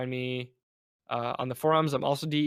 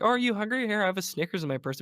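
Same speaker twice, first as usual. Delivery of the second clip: helpful-offer voice; 7 semitones higher, faster than usual. Retold or imitated. Someone offering a hungry friend Snickers, high and eager.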